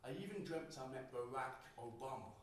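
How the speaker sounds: spoken word poem, rhythmic and performed; poem performance. Acted. Poet performing his poem about voice on stage, rhythmic.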